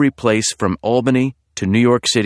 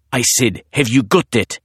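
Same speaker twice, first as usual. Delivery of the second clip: put-on husky British accent; 2 semitones higher than usual. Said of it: "a man's husky voice".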